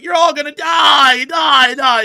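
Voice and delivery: loud, high repeated yell of die; menacing shout. Retold or imitated. Commissioner threatens the accused, a huge high yell. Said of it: "And then he was like".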